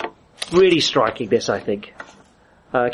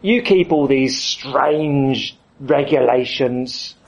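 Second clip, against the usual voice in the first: put-on sulky kid; slower than usual. Kid whining to his dad about keeping the rules. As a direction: play a reluctant teenager pushing back. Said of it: "a kid says to his dad".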